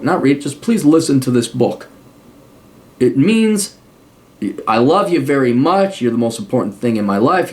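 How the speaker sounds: sincere, pleading plea to a son; heartfelt request. Shown as a demonstration. A father pleads with his adult son to listen. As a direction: ask gently from the heart. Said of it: "make a very heartfelt, honest request".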